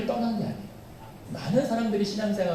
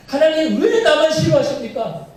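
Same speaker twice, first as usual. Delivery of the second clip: high, louder whine with a laugh in it; laughing mock complaint; 9 semitones higher, 6 dB louder than usual. Believer whining at God, laughing mock protest. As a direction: overplay the self-pity until it cracks into laughter.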